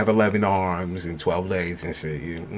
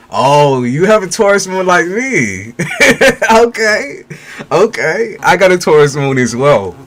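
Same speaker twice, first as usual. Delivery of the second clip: much higher and louder, laughing with delight; excited delight; 11 semitones higher, 11 dB louder than usual. Real, not acted. Thrilled to share a Taurus moon with the viewer, excited squeal. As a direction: squeal with glee at the match.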